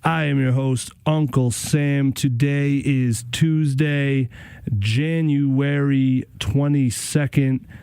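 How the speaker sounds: slow, deliberate on-air announcer voice; radio host intro. Acted. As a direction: open the show like a DJ. Radio host opens the show.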